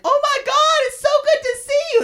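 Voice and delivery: very high, fast gushing mock voice; high-pitched mock delight; mother's gushing greeting. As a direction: squeal it like an overjoyed shop clerk. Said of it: "she's like".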